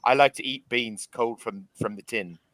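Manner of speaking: light put-on British accent, flirting over beans; a hint of posh British charm; mock British accent. Retelling a TikTok, mock British flirting. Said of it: "how British people flirt over beans".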